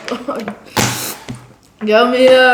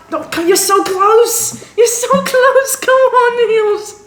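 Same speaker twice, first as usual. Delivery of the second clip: high, laughing urging; excited cheering; 10 semitones higher than usual. Real, not acted. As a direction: push him to finish, giggling. Cheering friend to finish.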